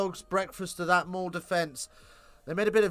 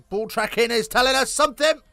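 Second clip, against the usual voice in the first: excited; 7 semitones higher, 6 dB louder than usual. Real, not acted. Excited commentary build-up.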